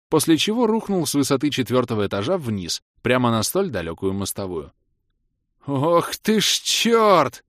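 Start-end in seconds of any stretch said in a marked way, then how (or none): 5.6-7.4 long, high, loud cry; drawn-out high-pitched holler; panicked yell. A narrator's reading. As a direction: yell it like mad as you fall. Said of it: "заорал я, как оглашённый".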